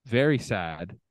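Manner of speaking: low, soft reading, touched by the loss; a little choked up. Real, not acted. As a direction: read it quietly, a touch moved. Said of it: "I'm getting a little choked up".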